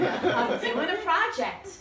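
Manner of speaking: giggling as she pitches the stranger; laughing while quoting. Retold or imitated. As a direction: laugh your way into the ask. Approaching strangers, audience laughing.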